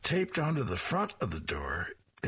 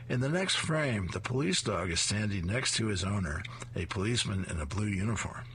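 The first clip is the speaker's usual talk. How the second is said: ordinary delivery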